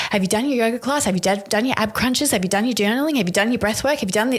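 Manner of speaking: lightly voiced mentor, brisk rising questions; a hint of a mentor quizzing you; mentor's checklist voice. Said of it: "one of my mentors says".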